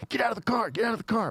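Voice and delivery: imitated police order. Agents swarm his car, mock-yelled urgent order. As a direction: mimic frantic commands high without full volume.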